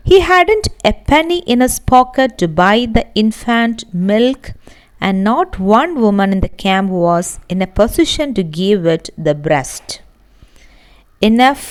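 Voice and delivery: measured, deliberate read-aloud of a story passage; textbook reading. Acted. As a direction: read the passage slowly for the class.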